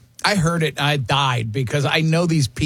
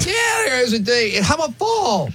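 excited rant; 6 semitones higher than usual. Real, not acted. Ranting about clock change.

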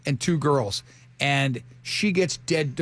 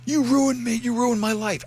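mock anguished accusation; 6 semitones higher than usual. Imitating ex met a week later with bandaged wrists, mock anguished accusation. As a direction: imitate a wronged ex, higher pitched.

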